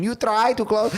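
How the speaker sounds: the same clumsy mock Asian accent again, clipped short; put-on Asian accent. Podcaster retelling the Polish leader's threat, mock Asian accent. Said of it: "I don't know why I made him Asian".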